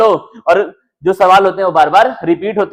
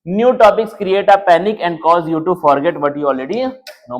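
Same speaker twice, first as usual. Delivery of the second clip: slow deliberate reading; slow reading aloud; much slower than usual. Shown as a demonstration. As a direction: read the reason slowly word by word. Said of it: "why, क्यों ऐसा है". (धीरे-धीरे पढ़कर सुनाना)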